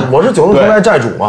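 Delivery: high mock Hong Kong gang boss; hammy Cantonese-accented Mandarin brag. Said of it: "演那个九龙城寨寨主".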